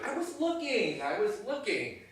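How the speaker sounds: flustered, insistent self-defence; defensive protest. Acted. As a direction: defend yourself emphatically. Colleague protests being scolded.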